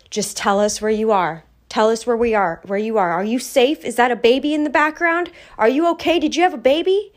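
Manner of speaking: high, rising worried questions; worried grandmother. Retold or imitated. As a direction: pile on anxious questions. Grandmother voiced anxiously asking.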